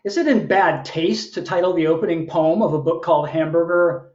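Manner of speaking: measured, performed poem with lilting phrases; poetry reading. Acted. Poet reading to an online audience, performed delivery. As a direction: read it as a live poem, line by line. Reads own poem aloud.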